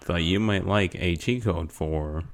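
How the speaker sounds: slow, even recorded-menu voice; automated phone menu voice. Acted. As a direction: read it like a phone system. Plays automated phone service.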